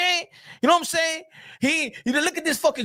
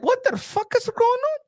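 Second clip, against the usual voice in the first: higher, ranting promoter voice with shouted bursts; mock Turki rant; 6 semitones higher than usual. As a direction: complain like a spurned big spender. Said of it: "He's like".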